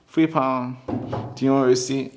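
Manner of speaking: monotone, rote till patter; robotic cashier. Acted. Salesman mimicking a cashier who isn't thinking, robotic. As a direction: repeat it mechanically, with no thought behind it. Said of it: "you're not a robot. You're not just".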